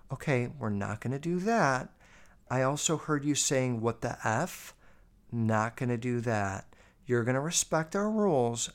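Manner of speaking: lightly voiced mom scolding her grown daughter; serious mom. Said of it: "her mom's, like, very serious".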